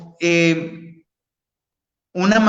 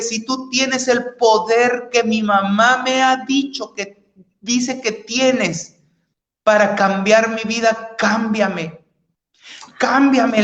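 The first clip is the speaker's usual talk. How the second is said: sobbing cry to God; 2 semitones higher than usual. Retold or imitated. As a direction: beg God to change him, voice lifting. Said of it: "empecé a gritarle, llorando, sollando".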